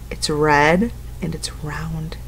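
soft, slow whispered clue. Acted. Teacher giving children a hint, slow whisper. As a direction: breathe the hint like a secret. Teacher hints answer to kids.

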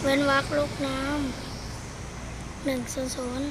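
เว้นวรรค ลูกน้ำ หนึ่งศูนย์ศูนย์ read out slow and soft; slow dictation. Shown as a demonstration. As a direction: spell the command out very slowly and softly. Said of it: "สาธิตให้ดู".

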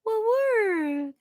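월 stretched out very slowly. Shown as a demonstration. Teacher slowly drawing out the blended word. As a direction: draw out 월 long and slow. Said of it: "만들었어요".

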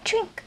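"drink" said the English way; "drink" as an English word. Shown as a demonstration. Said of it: "se queda como".

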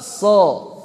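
so with mouth closed a little; teacher showing itbaq sod; narrowed so. Shown as a demonstration. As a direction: tighten the jaw on so. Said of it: "ditutup sedikit".

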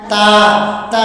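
তা spoken with the tongue tip on the upper teeth ridge; tajweed demo of তা. Shown as a demonstration. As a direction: model তা cleanly for pupils. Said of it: "উচ্চারিত হয় কি".

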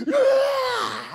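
high, loud imitated battle scream; retold scream. Preacher mimics a screaming arm wrestler, loud high yell. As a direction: belt out an opponent's wild yell. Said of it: "he starts screaming".

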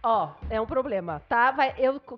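broken up by hiccups; words cut off by hiccups. Real, not acted. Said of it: "quantas vezes eu fico soluçando".

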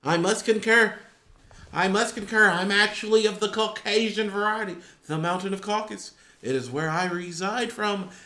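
lightly put-on stuffy diction; measured, hammed-up proper speech; mock formal speaker. Joker confesses he is not really black, mock formal. Jokingly posing as a Caucasian speaker.

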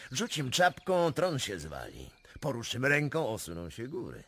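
high, loud boast; boastful cry. Acted. Prince boasting of Russia's might, loud and high. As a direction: fling it out like a conqueror.

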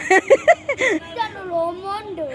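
bellowing Cristiano লোমান্ডো slowly and loudly; shouted name. Real, not acted. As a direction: yell it out proudly, drawn out. Child proudly shouts player name. (Cristiano লোমান্ডো জোরে চিৎকার করে, টেনে টেনে)

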